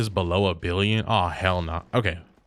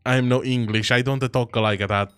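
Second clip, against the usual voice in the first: lightly put-on Italian accent; a hint of broken Italian English; mock Italian accent. Streamer voicing an Italian viewer's denial, mock Italian accent.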